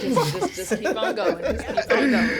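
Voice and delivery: helpless laughter breaking into the words; laughing. Real, not acted. Host telling the couple to carry on, laughing. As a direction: try to speak while cracking up. Host cracking up, waves them on.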